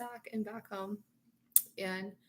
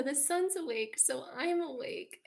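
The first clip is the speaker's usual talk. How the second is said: mock whiny little princess, higher and louder; 5 semitones higher, 6 dB louder than usual. Quoting the Tangled princess, mock whiny. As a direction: chirp it like a little cartoon princess. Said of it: "this whiny little princess".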